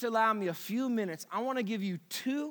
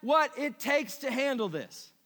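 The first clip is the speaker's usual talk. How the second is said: desperate cry; 2 semitones higher than usual. Retold or imitated. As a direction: cry out that it's too much. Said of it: "he said over and over".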